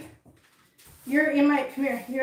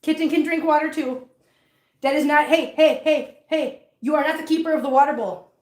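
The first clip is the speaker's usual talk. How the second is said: scolding pet; 4 semitones higher than usual. Real, not acted. Scolding a pet at water bowl.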